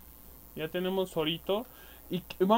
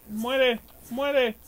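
raised, higher-pitched battle cry; carried-away excitement; 5 semitones higher, 3 dB louder than usual. Real, not acted. Gamer attacking monsters and getting carried away, excited yells. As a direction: shout it in short bursts mid-fight. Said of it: "me emociono".

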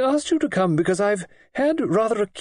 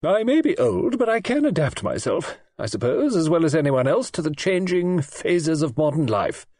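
snapped; 7 semitones higher than usual. A narrator's reading. Old lady snapping orders at Audrey about September. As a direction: shut down all argument, no more discussion. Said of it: "snapped Lady Tressilian".

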